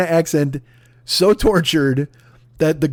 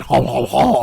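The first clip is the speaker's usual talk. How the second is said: mock Cajun "haw haw" laugh; half-hearted stab at a Cajun sound; token Cajun accent; 3 semitones lower, slower than usual. Shown as a demonstration. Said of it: "I couldn't possibly do that accent".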